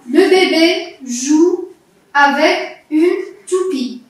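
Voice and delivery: slow reading in separated words; careful model reading. Shown as a demonstration. Teacher repeats the example sentence, slow and deliberate. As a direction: read it out word by word for a learner. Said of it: "Tu vas bien écouter".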